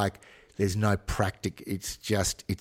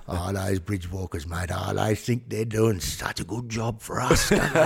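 mocking Aboriginal accent; 3 semitones higher than usual. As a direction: imitate an Aboriginal kid's accent, scoffing. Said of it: "It's actually not a bad accent".

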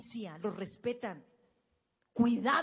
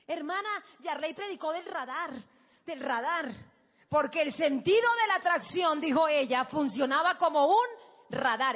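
mock young girl; 4 semitones higher, 7 dB louder than usual. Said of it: "el chiste de la jovencita".

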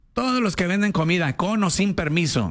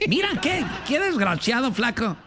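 higher pitch, laughing through the words; laughing tease; 6 semitones higher than usual. Real, not acted. Teasing his friend Flaco, laughing through the words. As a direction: laugh while calling him a scoundrel.

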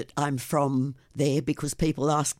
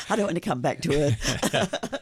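laughing; 3 semitones higher than usual. Real, not acted. Guest resists host's change of topic.

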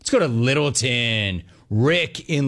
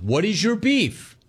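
slow; 7 semitones higher than usual. Shown as a demonstration. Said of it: "host demonstrates the format".

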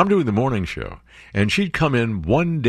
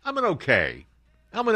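a mocking voice pitched higher; 12 semitones higher than usual. Host mocking himself in a higher, sillier voice. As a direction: play a silly self-doubting caller in a higher voice.

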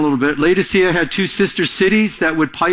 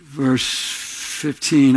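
usual speaking voice

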